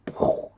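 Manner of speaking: puffed-out explosion noise; imitated explosion. Crab falls in the background, imitated explosion. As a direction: imitate a blast with a burst of breath.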